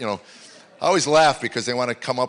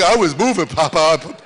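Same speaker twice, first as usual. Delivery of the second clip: little granddaughter voice; 2 semitones higher, 5 dB louder than usual. Acted. Injured granddaughter to Papa, whimpery child voice. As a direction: play a hurt little girl protesting, pitched up.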